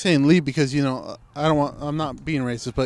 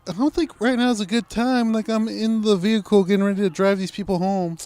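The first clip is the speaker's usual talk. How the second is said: retelling his own reply; 6 semitones higher than usual. Retold or imitated. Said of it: "I'm like".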